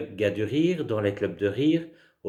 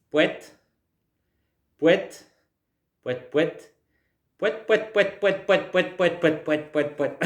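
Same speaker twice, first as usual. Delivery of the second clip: rising, giggly pouet-pouet noises; silly clown; 7 semitones higher, slower than usual. Shown as a demonstration. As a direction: play the clown, honking pouet. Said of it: "et on y va". (clown qui fait pouet pouet)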